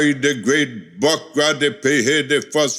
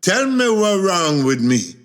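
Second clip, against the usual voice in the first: high, hammed-up begging; helpless cries swooping up and falling away; desperate pleading; 4 semitones higher than usual. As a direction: plead with a friend for rescue. Confused man pleads with his friend.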